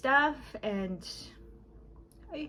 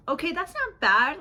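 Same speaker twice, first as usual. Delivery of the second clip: laughing; 7 semitones higher, 6 dB louder than usual. Retold or imitated. Laughing at own old reaction.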